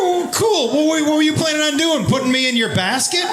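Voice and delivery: mocking sarcasm. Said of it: "I go".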